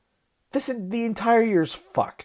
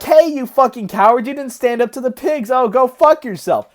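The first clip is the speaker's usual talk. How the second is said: mocking online trolls; 4 semitones higher, 6 dB louder than usual. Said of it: "They're like".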